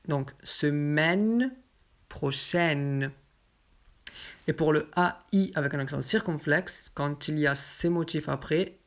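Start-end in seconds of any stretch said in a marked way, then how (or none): 0.4-3.1 semaine prochaine slowly, ai as open è; grave vowel. Shown as a demonstration. Teacher gives examples to learners, open è in semaine prochaine.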